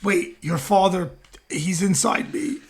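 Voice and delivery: milk it like a stage psychic; mock medium. Pretending to channel a dead father.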